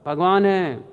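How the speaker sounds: mock shout of the old preacher straining to be heard; retold shouting. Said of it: "और ज़ोर से चिल्लाने लगे".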